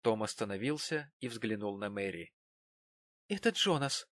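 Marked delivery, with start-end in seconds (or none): 3.3-4.1 a small, hesitant voice, pitched higher; timid. A narrator's reading. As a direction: say it shyly, almost afraid to. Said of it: "сказала она робко".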